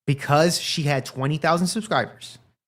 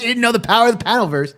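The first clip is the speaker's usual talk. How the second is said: mock epic; 6 semitones higher, faster than usual. Hyped dramatic phrasing.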